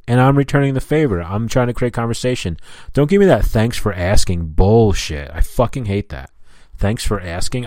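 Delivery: indignant, mildly heated comeback; irritated retort. Acted. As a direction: snap back at the fake politeness. Imagined irritated retort to rep.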